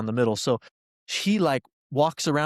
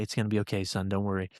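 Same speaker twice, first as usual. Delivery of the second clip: reassuring; 3 semitones lower, 5 dB quieter, faster than usual. Retold or imitated. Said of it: "this look like a father does".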